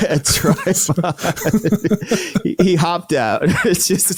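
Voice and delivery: words squeezed out through real laughter; can barely talk for laughing; laughing hard. Real, not acted. Joke about a tripod.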